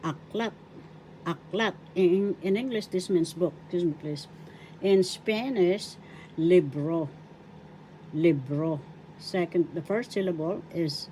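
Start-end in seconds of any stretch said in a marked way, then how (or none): 0.0-1.7 aklat rising onto its last syllable; stress on LAT. Shown as a demonstration. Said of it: "The accent is in the second syllable". 6.4-8.8 libro with the accent on RO; stress on second syllable. Shown as a demonstration. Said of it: "The accent is in the second syllable".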